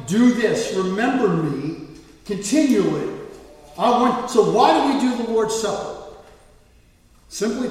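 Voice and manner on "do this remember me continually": loud, slowing imperative; forceful command. Acted. Preacher voicing Jesus's standing order to remember him, forceful command. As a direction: give a firm, weighty order. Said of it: "again with the force of a command".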